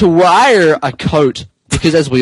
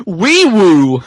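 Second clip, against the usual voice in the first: siren noise; 3 dB louder than usual. Acted. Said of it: "and he said".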